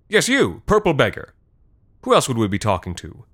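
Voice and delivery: high, loud and scornful; loud mocking official; scornful call-out. A narrator's reading. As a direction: call him out in front of everyone. Official singles out the beggar.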